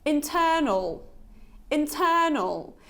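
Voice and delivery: "Internal" with a short schwa at the end, -nl; model word. Shown as a demonstration. Teacher reading the word for learners to repeat. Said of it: "Let's repeat this word once again".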